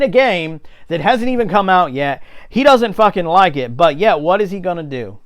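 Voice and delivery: loud angry rant; angry shouting. Real, not acted. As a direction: raise your voice in outrage. Ranting angrily about Angry Joe.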